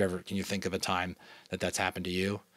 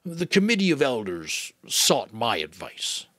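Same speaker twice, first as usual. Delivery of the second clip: the giver; 5 dB louder, slower than usual. Acted. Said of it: "the giver said".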